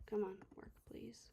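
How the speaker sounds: whispered plea under breath; pleading with a machine. Real, not acted. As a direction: softly beg it to work. Software not working, muttering.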